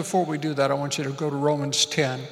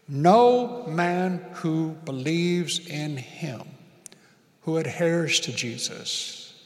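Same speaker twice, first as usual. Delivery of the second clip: slow, deliberate reading; slower than usual. Shown as a demonstration. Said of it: "you need to say that out loud".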